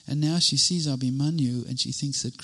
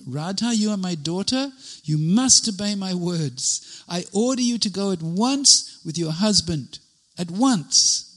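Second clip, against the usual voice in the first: higher, louder stern command; stern commanding order; 5 semitones higher, 3 dB louder than usual. Retold or imitated. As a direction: order her like a strict mother-in-law. Mother-in-law ordering Radha to go.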